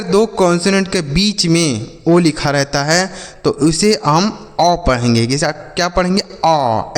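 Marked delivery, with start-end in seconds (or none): 6.2-6.9 अ as an open aw sound, said alone; short O as अ. Shown as a demonstration. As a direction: model the open vowel अ for learners. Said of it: "ऐसे पढ़ेंगे". (अ का खुला उच्चारण, जैसे aw)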